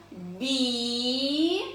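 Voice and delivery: "бі" drawn out slowly; syllable by syllable. Shown as a demonstration. Teacher leading children in reading, syllable "бі" drawn out. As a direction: stretch "бі" out into one long held syllable. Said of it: "читаємо зі мною по складах".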